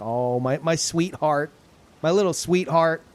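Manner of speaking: put-on an old man lightly doting on a child; talking to a child. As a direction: coo at a small child. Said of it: "it sounds like he's talking to a child".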